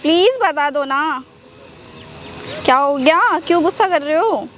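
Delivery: sweet, placating plea; coaxing apology. Acted. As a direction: coax an upset boyfriend to relent. Pleads with angry boyfriend.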